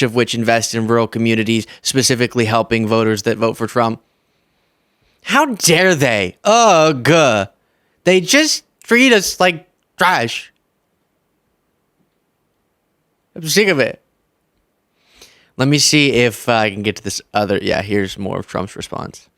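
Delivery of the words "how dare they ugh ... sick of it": mock whine. Mock-whiny imitation of Trump's grievance.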